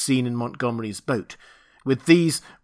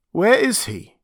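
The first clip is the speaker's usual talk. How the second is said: put-on higher, slurred drunken demand; drunk sailor; 9 semitones higher, 5 dB louder than usual. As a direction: ask like a befuddled drunk. Drunk Montgomery asks.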